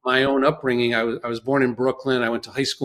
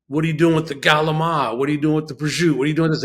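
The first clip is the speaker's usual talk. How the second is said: fake Italian; faster than usual. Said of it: "trying to be cool to speak this".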